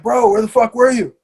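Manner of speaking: mildly heated, incredulous quote; retold angry demand. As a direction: imitate a teacher demanding answers. Angry teacher confronts him on return.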